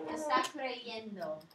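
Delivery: "Está creyendo" said slowly, "creyendo" with a clear y sound; teacher models "Está creyendo" slowly; model pronunciation. Shown as a demonstration. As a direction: spell out "creyendo" slowly for the class. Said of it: "I changes to a Y".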